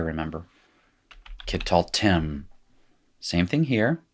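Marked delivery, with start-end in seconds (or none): 1.5-2.4 kittaltem with the accent on tem; accent on final syllable. Shown as a demonstration. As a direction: demonstrate kittaltem, short first vowel, stressed last syllable. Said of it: "The accent is here".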